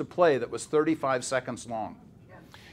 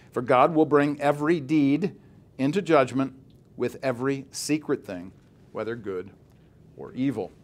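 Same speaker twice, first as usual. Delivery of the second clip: scripture reading. Acted. Lecturer reads Ecclesiastes aloud to students, solemn scripture reading. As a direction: read the verses to the class with weight.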